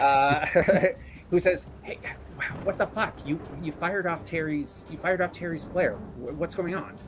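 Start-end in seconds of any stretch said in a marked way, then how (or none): 1.8-6.9 a touch higher, mildly incredulous; lightly voiced man caught off guard; higher-pitched mild disbelief; startled character. Game master voices startled Fumbles.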